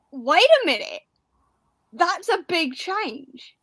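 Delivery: slow, dawning suspicion, drawn out; a slow wait-a-minute double take; suspicious realisation. Retold or imitated. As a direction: say it like you just caught something off. Suspicious realisation about waistcoats.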